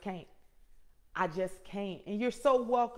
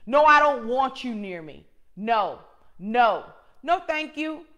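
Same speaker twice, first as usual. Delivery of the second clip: louder, insistent no's; firm loud refusal; 6 dB louder than usual. Retold or imitated. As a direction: say no like you mean it, loud and clear. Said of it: "I had to be very verbal and vocal".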